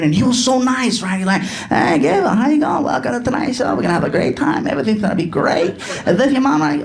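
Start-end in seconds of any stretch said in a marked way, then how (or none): 1.4-5.8 mock showbiz welcome, pitch sliding down; Jay Leno. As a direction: greet a guest like a chummy TV host. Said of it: "Jay Leno walked in".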